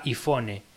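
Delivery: "iPhone" said as "i-fone", Spanish i and English f; half-English iPhone. Shown as a demonstration. Podcaster mocking a crude mix, "iPhone" as "ifone". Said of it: "mezcla burda de ambos idiomas".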